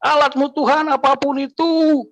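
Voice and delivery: high, forceful desperate demand; angry cry to God. Retold or imitated. The despairing man shouting at God at night, high and angry. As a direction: hurl the ultimatum at God, high and pressing. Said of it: "saya marah".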